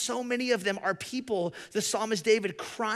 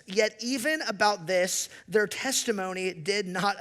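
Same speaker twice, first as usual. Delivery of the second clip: measured, emphatic Bible reading; scripture read to a congregation, rising in force; 3 dB louder than usual. Acted. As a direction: read the passage with weight, building louder. Reads scripture aloud.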